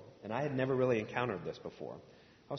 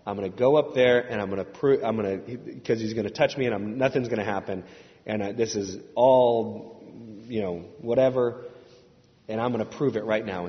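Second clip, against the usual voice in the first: louder, scoffing disbelief; scornful skeptic; 9 dB louder than usual. Retold or imitated. Steve at the back of the church, loud scornful scoffing. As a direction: sneer and dare the pastor. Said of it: "just thinking".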